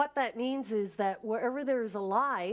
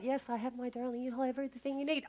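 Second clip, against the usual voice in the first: gentle reassurance; 5 semitones higher, 3 dB quieter, faster than usual. Acted. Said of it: "a softer, quieter voice".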